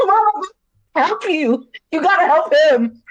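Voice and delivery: high, teary pleading, half-laughing; pleading with mom in a high, tearful voice; tearful plea. Retold or imitated. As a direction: beg mom through mock tears.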